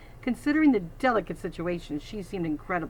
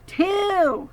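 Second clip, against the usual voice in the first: much higher, louder barked count; bully barking the count, louder; 12 semitones higher, 8 dB louder than usual. Acted. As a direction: bark the number. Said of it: "Jasper Junior barked again".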